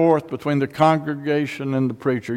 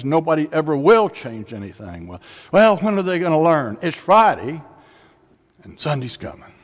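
louder, higher preaching; fervent, louder call; really getting going; 5 semitones higher, 3 dB louder than usual. Retold or imitated. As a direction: preach it hard and high. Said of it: "And now he really gets it going".

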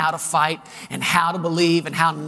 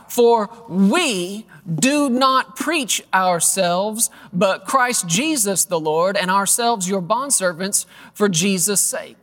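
slow, deliberate reading of the verse; scripture reading; much slower than usual. Acted. Preacher reading Corinthians aloud to the congregation, slow and deliberate. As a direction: read it slowly, weighing each phrase.

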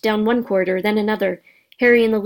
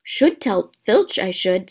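slow, mock-pious drawl; saintly voice; slower than usual. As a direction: play the innocent, taking your time. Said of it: "said Peeves in a saintly voice".

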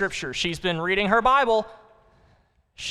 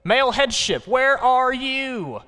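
God calling the husbands, building higher and louder; 9 semitones higher, 5 dB louder than usual. Acted. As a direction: preach it as God's summons to husbands. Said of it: "says God".

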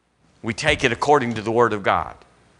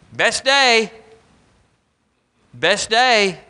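incredulous echo; 8 semitones higher, much slower than usual. Retold or imitated.

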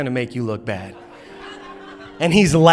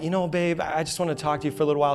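softer, quick husbandly murmur; casual sweet-talk; 6 dB quieter, faster than usual. Retold or imitated. Husband sidling up to his wife, soft and casual. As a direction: ease in casually, keep it soft.

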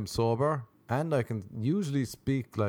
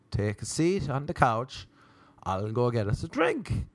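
deliberate, more emphatic offer; measured, word-by-word invitation; spelling it out. Retold or imitated. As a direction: repeat it carefully for someone who didn't catch it.

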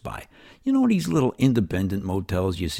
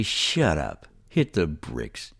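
firm dismissal; 4 semitones lower, much slower than usual. Acted. Banishing the whining inner voice.

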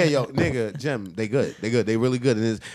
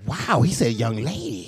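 mock amazement; 4 dB quieter, slower than usual. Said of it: "Everybody was like".

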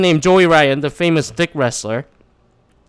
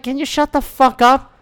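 exasperated retort; 9 semitones higher than usual. Retold or imitated. Retold retort to heckler.

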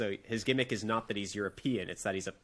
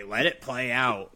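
mocking fan; slower than usual. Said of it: "are gonna say".

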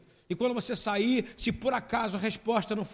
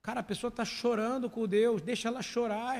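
ordinary talk

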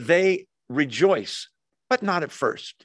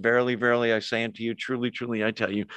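put-on old King James phrasing; 4 semitones lower, 3 dB quieter, faster than usual. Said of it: "that's his way of saying".

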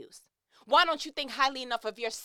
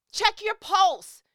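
slow emphatic; 9 semitones higher, 9 dB louder, much slower than usual. Real, not acted. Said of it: "'cause I'm worked up".

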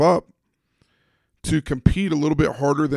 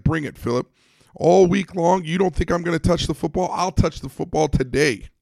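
fired up; 5 semitones higher than usual. Retold or imitated. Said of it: "Greg was fired up".

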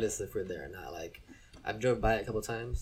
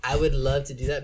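excited; 5 semitones higher, 10 dB louder than usual. Real, not acted. Excited about a beat battle.

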